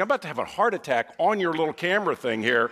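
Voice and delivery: fast, high, loud alarmed thought; mock panicked rush. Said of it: "I'm instantly in a panic".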